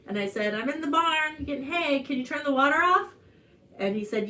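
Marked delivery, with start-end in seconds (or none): 0.5-3.1 raised-pitch reply from a distance; higher, mildly projected answer; calling back. Retold or imitated. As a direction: re-enact calling back from the barn. Calls back from the barn.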